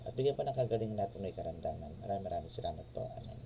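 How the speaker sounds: murmured prayer asking for guidance. Real, not acted. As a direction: pray softly, sinking and quickening toward the close. Prays aloud before the reading.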